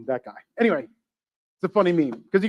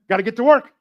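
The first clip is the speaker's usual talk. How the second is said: put-on street voice; 3 semitones higher than usual. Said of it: "I don't know why I'm talking like that".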